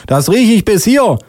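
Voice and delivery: high, slow accusing policewoman; high put-on indignant voice. Policewoman retorts in story.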